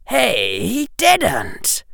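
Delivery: high, appalled exclamation; as if the words are torn from you; torn-out disbelief. A narrator's reading. Harry reacting to his book, words torn out. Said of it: "Harry said in the same voice".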